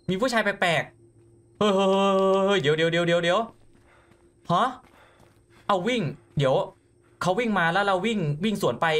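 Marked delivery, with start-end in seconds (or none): 0.1-6.0 rising panicked hey hey wait wait; higher, drawn-out alarmed pleading. Real, not acted. Player startled by a strange man running at him, panicked.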